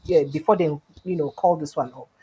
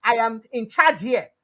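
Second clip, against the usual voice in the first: angry retort; 4 semitones higher than usual. Retold or imitated. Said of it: "fire back sharply".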